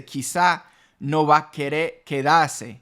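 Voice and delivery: "Quizá no va a querer quedarse" with the R's dropped, querer as "quee"; Dominican R-dropping. Shown as a demonstration. Teacher showing how Dominicans drop the R's. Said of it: "they would even cut the R's".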